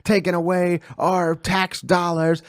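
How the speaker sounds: a drawn-out mock complaint about freeloaders; mock angry ranter. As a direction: grumble slowly as an indignant taxpayer, half in jest. Mocking a Trump supporter's rant.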